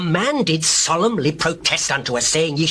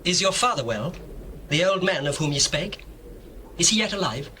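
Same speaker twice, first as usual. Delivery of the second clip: softer, holding back feeling; hushed, tender question; 5 dB quieter than usual. Acted. Joseph softly asking his brothers about their father. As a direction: ask gently, hiding how much it matters.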